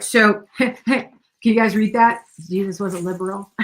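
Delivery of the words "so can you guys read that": laughing. Real, not acted. Laughing while showing bumper sticker.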